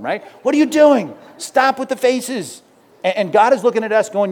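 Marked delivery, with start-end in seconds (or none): 0.4-2.6 high, slow mock scolding; a hammed-up fed-up parent; exasperated parent. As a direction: scold a pouting kid, half joking. Parent scolding sulky child.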